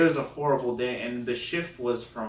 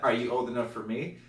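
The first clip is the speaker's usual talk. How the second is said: lightly voiced sister, near usual voice; imitated sister. Sister repeating the question, lightly imitated. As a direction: ask it understated, barely putting on a voice. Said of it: "And then her sister".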